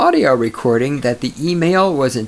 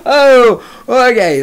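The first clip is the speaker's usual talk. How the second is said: loud high exclamation through laughter; loud burst; 9 semitones higher, 8 dB louder, slower than usual. Real, not acted. Host laughing at his own pickup joke, loud burst. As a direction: blurt it out loudly while laughing.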